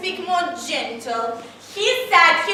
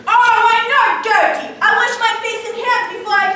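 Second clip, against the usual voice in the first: indignant cockney protest; 3 semitones higher, 5 dB louder than usual. Acted. Eliza protests being called dirty.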